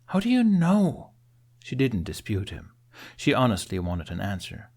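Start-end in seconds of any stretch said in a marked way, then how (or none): 0.1-1.1 insistent high question. Acted. Astrid pressing insistently for answer.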